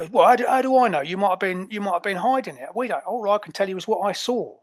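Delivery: indignant Cockney henchman; Cockney, incredulous and accusing; Cockney ape. Acted. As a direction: argue back in a broad Cockney accent. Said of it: "I love that he's a Cockney ape".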